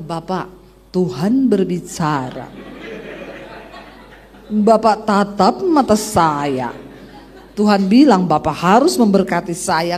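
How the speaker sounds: slow, laughing mock prophet voice; slow, amused parody of a pushy self-made prophet. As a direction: ham up a fake prophetic word, slowly. Mocking fake prophetic pitch.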